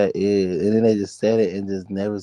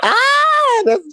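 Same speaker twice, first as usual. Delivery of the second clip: surprised squeal; 9 dB louder than usual. Real, not acted. Recognizes Cherry Boo.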